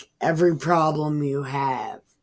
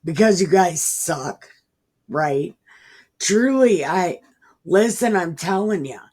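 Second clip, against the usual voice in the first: blunt mock scolding; 4 semitones higher, 5 dB louder than usual. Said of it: "And he said".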